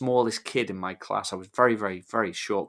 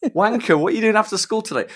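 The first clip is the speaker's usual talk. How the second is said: polite greeting; 10 semitones higher, 7 dB louder than usual. Retold or imitated. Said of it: "I was trying to be polite".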